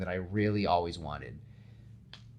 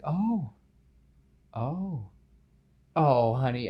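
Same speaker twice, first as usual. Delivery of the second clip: tender sympathy; 4 semitones higher, 3 dB louder, slower than usual. Acted. Aunt May comforts terrified Gwen.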